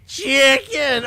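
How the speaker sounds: sudden high shout; shouted answer. Retold or imitated. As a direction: blurt it out loud. Contestant's wrong answer, reenacted.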